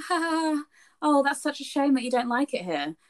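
high, fake courteous laugh and sympathy; mock-polite British. Woman re-enacting humouring a grumbling neighbour, mock-polite and high-pitched. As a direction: put on exaggerated British politeness. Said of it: "I'll be polite".

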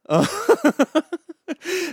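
real amused laugh, high; high laugh burst. Real, not acted. Laughing at the hot restaurant.

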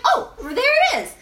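high, bright laughing find; delighted laugh at finding it; happy discovery. Retold or imitated. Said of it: "I'm like".

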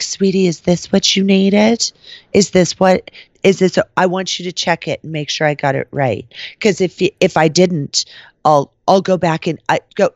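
retold mock-helpful bitchiness; nasty fake sweetness. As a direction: lay on the fake concern, pointedly. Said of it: "turned super cunt".

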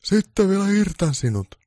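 high, slow threat; Santa's slow high threat; menacing roar. Acted. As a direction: drag out the threat slowly. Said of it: "pukki jatkoi karjumistaan".

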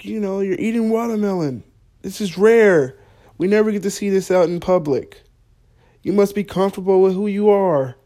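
imitating an overeager fan; mock admiring stranger. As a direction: gush like a tourist at a rare sight. Polish family praising him.

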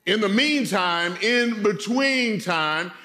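a preacher's slow refrain; drawn-out refrain. Shown as a demonstration. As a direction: stretch out in between time slowly. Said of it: "refrain repeated, drawn out".

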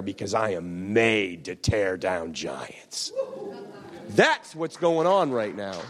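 fervent preaching. Acted. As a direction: preach it with rising, rolling conviction. Preaches at full force.

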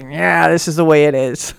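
lightly gruff, matter-of-fact; a hint of a blunt older woman. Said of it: "She's, like, got that gruff voice".

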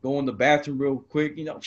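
ordinary talk, nothing marked

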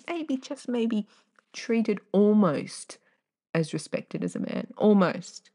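slow, trailing wry emphasis; sarcastic. Real, not acted. Mocking men's privilege with a slow wry drawl. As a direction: let the irony hang.

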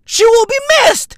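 high loud fake grief; high shouted mock eulogy. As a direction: belt it like an overdone eulogy.

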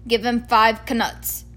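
slow sleepy giant voice; drowsy, half-awake Hagrid. Acted. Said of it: "said Hagrid sleepily".

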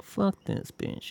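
whispered curse, slow and soft. Retold or imitated. Silently cursing a lovey-dovey couple, slow whisper. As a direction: hiss it under your breath, slowly. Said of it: "'Cause I was like".

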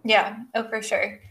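a little crack in the voice. Real, not acted. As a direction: voice cracks mid-word. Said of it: "wow, my voice just cracked".

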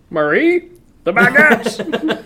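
high, slow, exaggerated call across the square; hammed-up French shout for the bread; French villager calling out.

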